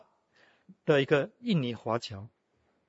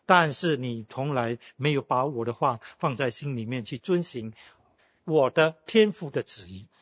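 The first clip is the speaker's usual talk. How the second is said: solemn voice of Jesus; 4 dB louder than usual. Retold or imitated. Preacher voices Jesus' stern words.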